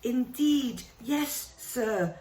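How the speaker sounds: a fretful elf begging Harry to listen; house elf. Acted. Dobby the house elf pleading with Harry, high and anxious.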